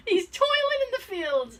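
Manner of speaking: toiling said high and grand, a hammed-up lament; mock dramatic. Telling friends about dad's farm job, mock dramatic. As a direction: play up the hardship for laughs. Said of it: "mock-dramatic description of dad".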